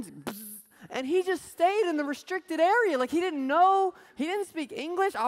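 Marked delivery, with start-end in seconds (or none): 0.0-0.6 imitated zap. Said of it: "all of a sudden".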